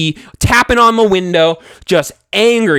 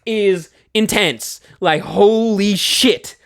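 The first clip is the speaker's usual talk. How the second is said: slow stunned awe; slow, drawn-out awe; awed; much slower than usual. Retold or imitated. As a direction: drag out stunned disbelief. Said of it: "And I'm just like".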